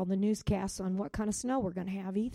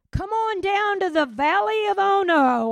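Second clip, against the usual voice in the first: taunting enemy voice; 11 semitones higher, 11 dB louder than usual. Acted.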